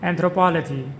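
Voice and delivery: Anthropology, stressed on the third syllable; model pronunciation. Shown as a demonstration. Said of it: "With the stress on the third syllable".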